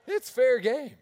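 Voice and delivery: loud laughing retort; gleeful loud laugh. Retold or imitated. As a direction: shout it through laughter. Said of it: "We're like".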